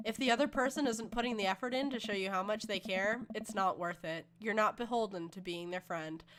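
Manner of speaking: soft, measured fatherly advice; earnest reassuring dad. Acted. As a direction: counsel your hurt daughter gently. Voices the dad comforting his daughter.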